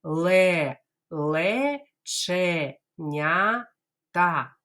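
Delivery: Ле-ле-че-ня-та very slow, every syllable apart; teacher drills Ле-ле-че-ня-та slowly. Shown as a demonstration. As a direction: spell it out syllable by syllable. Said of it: "Давайте скажемо повільно".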